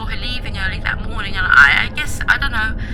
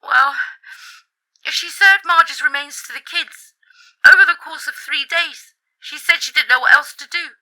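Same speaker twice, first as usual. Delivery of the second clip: upset, raised voice after a sniff; sniffly, tearful confession; 4 dB louder than usual. Acted. Friend reveals the horror to caller, sniffling. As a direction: force the awful news out through tears. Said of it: "She sniffed".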